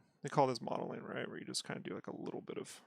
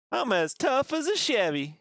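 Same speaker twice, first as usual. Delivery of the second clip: put-on country accent; 3 semitones higher than usual. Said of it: "Very country like".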